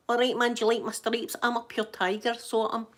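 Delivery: lightly voiced toy zebra with Glaswegian patter. Zebra showing his stripes to the dinosaur, Glaswegian zebra. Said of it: "then Glaswegian zebra goes".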